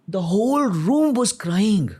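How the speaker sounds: a drawn-out high proclamation; emphatic exclamation. Real, not acted. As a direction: stretch every word out, overwhelmed. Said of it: "emotional climax of story".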